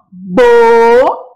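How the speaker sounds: slow syllable-by-syllable demo; syllables split apart. Shown as a demonstration. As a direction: sound out "Bo-ne-ca" one syllable at a time. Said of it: "grupinhos de letras que eu falo de uma vez só".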